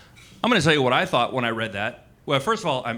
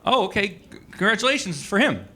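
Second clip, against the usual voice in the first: awkward reply; 6 semitones higher than usual. Retold or imitated. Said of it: "so I was like".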